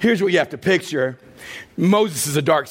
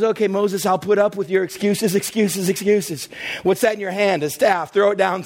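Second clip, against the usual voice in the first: God's voice; 5 semitones higher than usual. Acted. Preacher voicing God to Moses.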